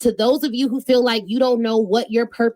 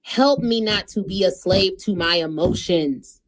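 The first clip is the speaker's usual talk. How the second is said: prayer; 3 semitones lower than usual. Retold or imitated. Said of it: "My prayer ... would be like".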